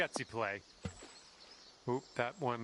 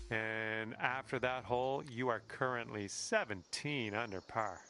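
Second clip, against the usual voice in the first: golf commentator. Pretend. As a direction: announce the score like TV golf. Announcing the score after hole.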